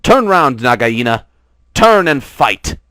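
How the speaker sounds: loud, high battle cry; fierce challenge. A narrator's reading. Rikki Tikki shouts a challenge at Nagaina, loud. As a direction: call the snake out to fight. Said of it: "Rikki Tikki came up and cried".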